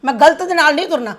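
loud, sharp telling-off; angry scolding. Acted. Mother loudly scolding her daughter-in-law to stop talking back.

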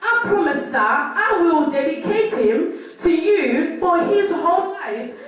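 measured, deliberate reading aloud; scripture reading. Acted. Sister reads the passage to the congregation, deliberate scripture reading. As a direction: read out the Bible passage phrase by phrase.

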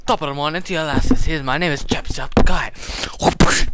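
lightly mock Irish hello, stretched out; Jacksepticeye intro. Greeting a player in game as Jacksepticeye, mock Irish. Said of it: "keep saying the Jacksepticeye thing".

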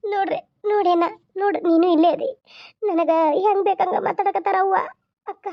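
crying while complaining to mother; choked, tearful protest; tearful complaint. Acted. Daughter complains in tears. (ಅಳುತ್ತಾ ದೂರು ಹೇಳುವ ಧ್ವನಿ)

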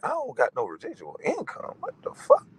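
shrieking high mock disbelief on the last words. Mocking a rival's money talk with a high squeal of disbelief. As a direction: squeal the punchline way up in fake shock. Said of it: "I'm like".

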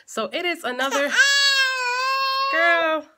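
high, loud, laughing fast; laughing through words. Real, not acted. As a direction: crack up while you talk.

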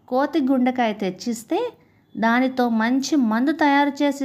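animated, lilting storytelling voice; story narration. A narrator's reading. Narrator telling a Panchatantra fable of monkey and crocodile, expressive storytelling. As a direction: read the fable with rising and falling phrases.

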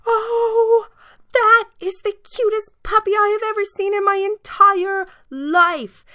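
put-on high, thrilled little girl squealing; excited scream. A narrator's reading. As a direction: gush over the puppy in a high squeal. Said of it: "she screamed".

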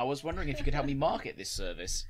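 mock Nigerian prince scam. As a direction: ham up the scam pitch.

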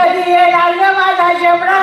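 high, sing-song lament; crying wail. Acted. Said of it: "रडू नका". (मुलासाठी गळा काढून विलाप)

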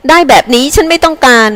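high-pitched protest from an angry wife; shrill cry, toned down. A narrator's reading. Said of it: "หล่อนร้องเสียงแหลม". (ร้องค้านเสียงแหลมแบบภรรยาขี้งอน)

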